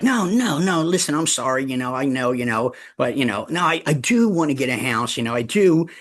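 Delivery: high, quick, backpedalling; flustered apology to the agent; pleading client. Retold or imitated. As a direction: client rushing to take it back.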